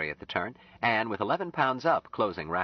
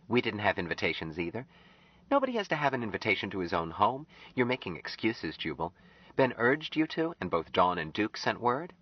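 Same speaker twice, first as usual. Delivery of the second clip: Anne; 3 semitones higher than usual. Acted. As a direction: voice Anne, pleading gently with Jubal. Narrator voices Anne.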